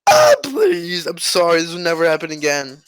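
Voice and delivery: mock tearful begging. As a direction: friend begs not to end the friendship. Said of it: "he's like".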